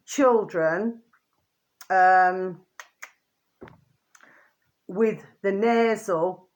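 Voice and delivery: slow read with long pauses between words; reading a headline aloud slowly; slow deliberate reading. Shown as a demonstration. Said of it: "I'm just gonna repeat that again for you".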